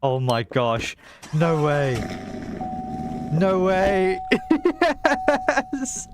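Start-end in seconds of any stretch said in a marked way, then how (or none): 1.3-6.1 excited. Real, not acted. Thrilled reaction.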